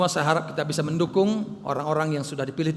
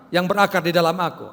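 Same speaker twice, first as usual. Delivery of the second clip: voice of God; 6 semitones higher, 10 dB louder than usual. Retold or imitated. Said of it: "Tuhan berkata".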